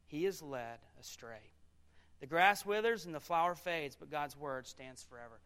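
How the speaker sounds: measured reading in spaced phrases; solemn Bible reading, a pause after each phrase; scripture reading. Acted. Preacher reads Proverbs to the congregation, measured scripture reading.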